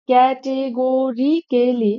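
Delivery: ক্যাটেগরিক্যালি said slowly, syllable by syllable; teacher spelling out ক্যাটেগরিক্যালি slowly for the class; slow careful repeat. Shown as a demonstration. Teacher to students, spelling it out slowly.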